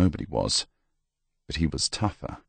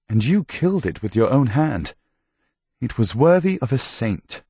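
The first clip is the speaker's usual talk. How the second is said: higher, animated priest's voice; priest praising the kill; 5 semitones higher than usual. Acted. Priest telling sick Tomas of his deed, higher and animated. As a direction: tell it with lifted, emphatic admiration.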